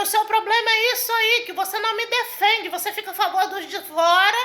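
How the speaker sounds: high, heated retold accusation; indignant outburst at a spouse; worked-up anger. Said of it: "eu já fiquei nervosa com meu esposo".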